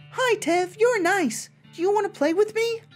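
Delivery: sweet and unsettling talking doll; too calm creepy doll. Acted. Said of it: "its mouth begins to move".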